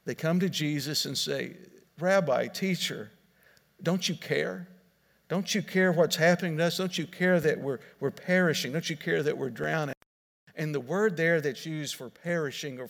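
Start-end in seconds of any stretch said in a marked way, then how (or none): 2.0-9.9 higher, urgent pleading cry of frightened men; panicked disciples shouting over the storm, higher and pleading; desperate disciples' plea. Acted. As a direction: beg him to wake up and care. Disciples pleading with sleeping Jesus.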